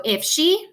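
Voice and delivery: "if she" with weight on "she"; light "if", drawn-out "she"; stress on SHE. Shown as a demonstration. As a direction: show the beat landing on "she". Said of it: "that's emphasized".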